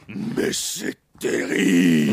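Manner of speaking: mock tragic lament.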